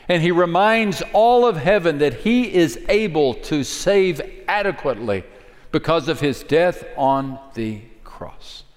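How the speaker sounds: ordinary talk, nothing marked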